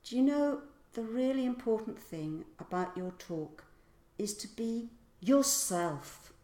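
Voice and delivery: be slowed and pushed out; stress on be. Shown as a demonstration. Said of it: "to emphasize certain words".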